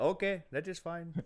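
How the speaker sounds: put-on Indian accent. Told the chat wants the rest of the show done this way, answer in an Indian accent. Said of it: "They want you to do the rest of the show in the Indian".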